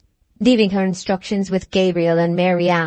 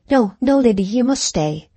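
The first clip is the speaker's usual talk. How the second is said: mild entreaty; 4 semitones higher than usual. Acted. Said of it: "dropping from haughtiness to entreaty".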